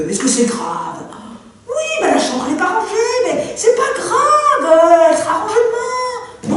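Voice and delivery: husband brushing off his wife's anger; dismissive husband. Acted. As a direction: belittle her outburst.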